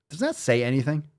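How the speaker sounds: hushed, breathless whisper. Acted. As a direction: whisper it like a secret. Continuing the whisper.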